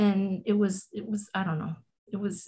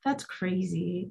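stunned hush; 7 dB quieter, slower than usual. Real, not acted. Stunned reaction repeated.

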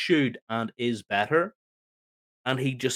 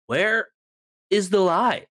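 mocking quote; 4 semitones higher, 4 dB louder than usual. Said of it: "all I heard was".

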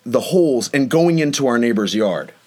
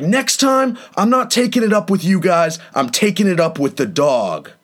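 higher pitched mock angry neighbor; imitating an irritated gym guy, raised pitch; 4 semitones higher than usual. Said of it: "He's like".

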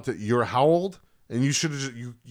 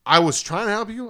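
East Coast attitude; 8 semitones higher, 6 dB louder than usual. Retold or imitated. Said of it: "here comes the East Coast Ed".

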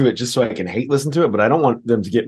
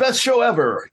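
hyped singer; 11 semitones higher, slower than usual. Retold or imitated. Mocking the singer's crowd banter.

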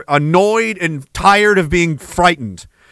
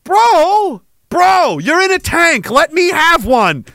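high whiny begging, bro, bro; mock pleading to tank; 9 semitones higher, much slower than usual. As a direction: plead much higher, stretching the last words slowly. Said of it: "I was like".

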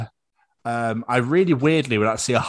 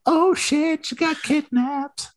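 higher hammed-up action hero; mock hero voice; 11 semitones higher, slower than usual. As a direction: play the hero for laughs, higher. Acting out Die Hard plot.

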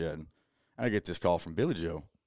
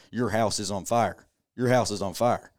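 a retold panicked call, louder and slow; panicked warning; 3 semitones higher, 5 dB louder than usual. Coworker phoning Dakota that his house burns, mildly panicked. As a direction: urge him, a touch of retold panic. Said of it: "this panic in his voice".

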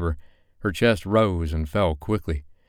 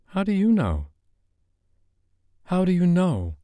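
Sophie, insistent; 13 semitones higher than usual. Acted.

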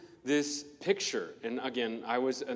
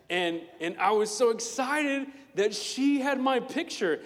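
excited; 8 semitones higher, 4 dB louder than usual. Real, not acted. Remembering childhood excitement.

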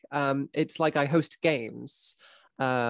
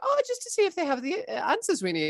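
high sheepish player. Retold or imitated. Imitating a player.

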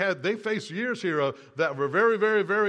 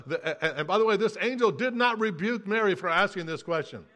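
normal talking voice

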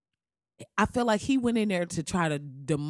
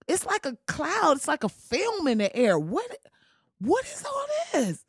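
pitched-up confused comeback voice; bewildered Barack returning; 4 semitones higher than usual. Pretend. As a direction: play Obama stepping back in, stunned at the mess. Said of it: "I would just show up like".

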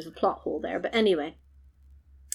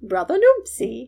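loud, high and slow mock cry; a dramatic demo wail; hammed-up wail; 5 semitones higher, 5 dB louder, slower than usual. Shown as a demonstration. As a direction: stretch out "Brother Noopsy!" as a mock wail. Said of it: "Like this".

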